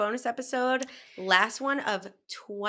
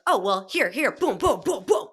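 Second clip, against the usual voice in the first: louder, rising pitch, rapid-fire; excited rapid-fire; 2 semitones higher, 9 dB louder than usual. Retold or imitated. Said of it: "Our guides are like".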